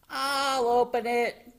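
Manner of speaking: high, loud, eager offer; excited. A narrator's reading. Froggy offers to open the spaghetti, high excited voice. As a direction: burst out keenly in a high voice. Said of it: "he was so excited".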